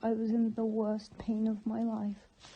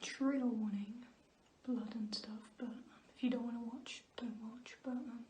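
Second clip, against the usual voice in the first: whispering; 6 dB quieter than usual. Real, not acted. Whispered trigger warning.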